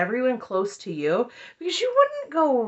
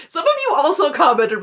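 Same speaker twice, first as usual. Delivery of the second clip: ordinary talk, nothing marked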